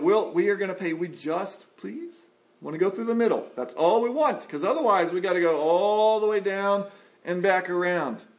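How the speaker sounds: animated, insistent begging; acted-out earnest coaxing; pleading appeal. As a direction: plead for a small favor, rising as it goes. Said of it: "the people of Israel appeal".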